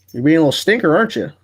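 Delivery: teasing the dog, lifting into the question; playful pet talk. Real, not acted. Streamer to his dog as he picks it up, playful pet talk. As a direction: coo a playful mock scolding.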